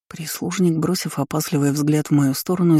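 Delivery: ordinary delivery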